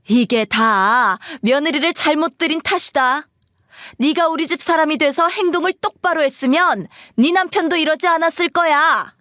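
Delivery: high-pitched, blaming tirade; scolding mother-in-law. Acted. Mother-in-law blaming the wife for her son's behavior, scolding. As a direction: lay the blame on the daughter-in-law.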